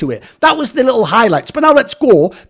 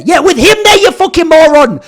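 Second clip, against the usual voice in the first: mocking laugh; 8 semitones higher, 6 dB louder than usual. Real, not acted. Mocking the leaked interview.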